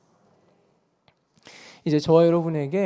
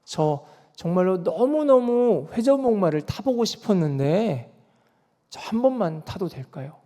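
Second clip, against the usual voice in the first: put-on mildly pleading child asking a favor; lightly voiced earnest appeal; earnest plea; 2 semitones higher than usual. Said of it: "간절한 마음으로 말합니다".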